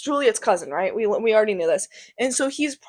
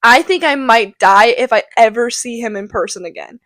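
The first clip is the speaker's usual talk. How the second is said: swooning Juliet. Acted. Juliet gushing about Romeo, mock swooning. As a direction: gush over the boy like a smitten teen, half-hammed. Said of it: "and then she goes".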